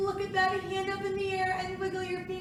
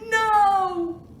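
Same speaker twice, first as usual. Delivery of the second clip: dramatic no; 2 semitones higher, 11 dB louder than usual. Acted. Dog escaping in story.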